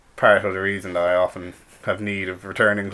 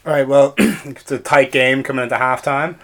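raised, louder halftime-host voice; mock sportscaster; 4 semitones higher, 6 dB louder than usual. Host sends evil-versus-good score to halftime, mock sportscaster. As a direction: play a sports presenter throwing to a break.

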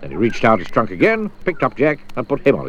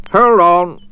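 louder, higher call to hold on; mild call out; 8 semitones higher, 8 dB louder than usual. Acted. Mister Daydream telling Jack to hold on, raised call. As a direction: warn him over the wind. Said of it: "Mister Daydream warns Jack".

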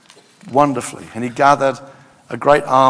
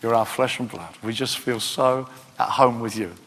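warm and simple; 4 semitones lower, 4 dB quieter than usual. Shown as a demonstration. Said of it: "Simpler, easier to understand".

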